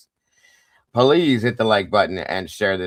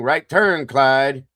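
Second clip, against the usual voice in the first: Eastwood quote; 5 semitones higher, 5 dB louder, much slower than usual. Retold or imitated. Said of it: "as Mister Eastwood would say".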